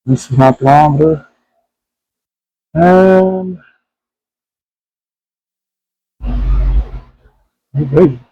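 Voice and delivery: talking through a face mask; muffled behind a mask. Real, not acted. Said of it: "if I sound a little bit muffled, it's because I have my mask on".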